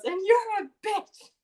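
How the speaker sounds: high, loud mock boom; booming insult. Kyrian insulting the prosecution, mock booming voice. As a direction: fling it across the courtroom. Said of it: "makes his voice really loud and booming".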